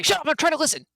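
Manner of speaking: high, snippy goblin hush; irritated goblin. Acted. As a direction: silence a pal like an annoyed goblin. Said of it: "What did he say?".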